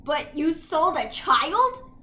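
loud, slow sarcastic question; mock outrage. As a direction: drag it out in mock horror. Mocks villain's outrage.

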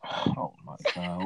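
slow, drawn-out shocked gasp. Real, not acted. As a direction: stretch it out in disbelief. Shocked by prosthetic leg question.

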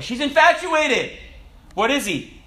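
loud incredulous correction; exasperated exclamation. Acted. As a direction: cry it out in mock exasperation. Exclaimed answer to woman's excuse.

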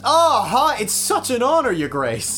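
high, loud gushing greeting; fawning. Pretend. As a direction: gush over a VIP. Pretend fawning phone call.

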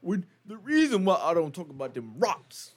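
slow, lightly voiced old man; slow down, play a hint of a grandpa. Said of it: "Can you do this in your old man voice?".

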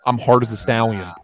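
voice changer. Pretend. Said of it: "are y'all not hearing this?".

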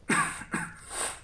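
acted hacking cough of an invalid; sickly cough. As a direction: cough as if gravely ill. Sick man coughs.

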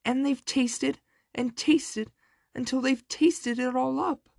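put-on shrill baby bear voice; squealing baby bear. A narrator's reading. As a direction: squeal it like an upset bear cub. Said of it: "squealed the baby bear".

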